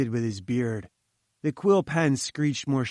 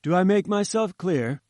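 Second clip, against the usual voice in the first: a hint of a haughty scientist, lofty; lightly voiced pompous professor; 2 semitones higher than usual. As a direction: read it like a grand, self-important professor. Challenger speaking, pompous.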